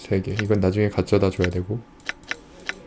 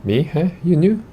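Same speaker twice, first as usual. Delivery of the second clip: squeaky, much higher prying voice; suspicious merchant; 8 semitones higher, much slower than usual. Acted. Grubby merchant prods the newcomer, high and suspicious. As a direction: needle him with a squeaky "you new?".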